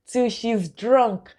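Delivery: drawn-out, very slow repeat; slow repeated emphasis. Real, not acted. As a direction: stretch every word to stress it. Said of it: "They told me that".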